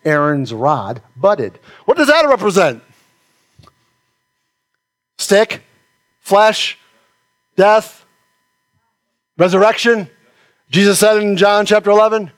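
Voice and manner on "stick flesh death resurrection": each word alone, with long pauses; deliberate preacher's list; spaced out. Acted. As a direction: drop each word slowly with weight. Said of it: "preacher spaced list".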